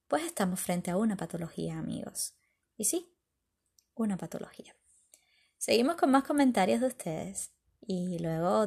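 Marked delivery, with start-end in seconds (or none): 2.8-4.8 whispered repeat of the point; hushed aside. Real, not acted. Host leans in to the listeners, whispering. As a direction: drop to a secretive whisper.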